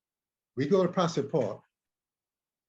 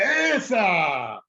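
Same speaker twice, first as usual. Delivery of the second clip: long, high, loud mock yell; retold yell; 7 semitones higher, 7 dB louder than usual. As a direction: cry out as the hold hits, hammed-up. Retold yell when technique hits him.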